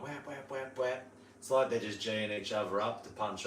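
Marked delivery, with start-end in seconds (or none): 0.0-1.1 soft repeated whap squawks; short, punchy little bird noises; imitated bird calls. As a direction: mimic birds firing each other up, quietly. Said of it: "a couple of them going".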